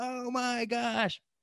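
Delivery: high, slow, drawn-out thrilled scream.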